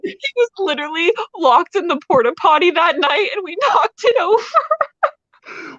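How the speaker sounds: high-pitched, laughing through the words; helpless laughter. Real, not acted. Guest confessing a wrestling prank to the host, helpless laughter. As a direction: barely get it out for laughing.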